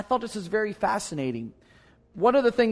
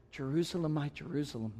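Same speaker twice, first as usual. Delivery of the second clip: soft lament; 2 semitones lower, 7 dB quieter than usual. Retold or imitated. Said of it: "he starts crying so hard".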